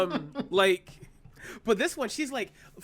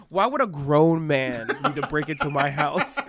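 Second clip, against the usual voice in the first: puzzled Chucky; 4 semitones lower, 5 dB louder, slower than usual. Retold or imitated. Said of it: "Chucky looks at him and goes".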